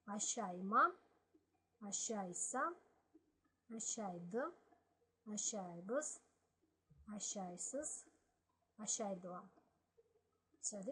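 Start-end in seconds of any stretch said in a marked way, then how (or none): 0.1-9.4 each Balkar ending said clearly, one form at a time; Balkar verb forms read. Shown as a demonstration. Teacher models the conjugation for students, in careful Balkar.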